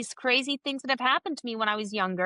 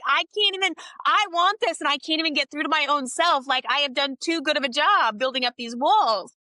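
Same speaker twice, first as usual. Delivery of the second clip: higher, louder frustrated outburst; exasperated; 5 semitones higher, 4 dB louder than usual. Retold or imitated. Telling the host about her walls, exasperated and raised. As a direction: vent at your own walls.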